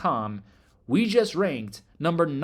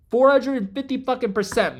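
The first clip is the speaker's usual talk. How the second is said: much higher and louder, hyped; excited shout; 8 semitones higher, 7 dB louder than usual. Real, not acted. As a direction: yell the percentage like a victory cry. Shouting out a huge return.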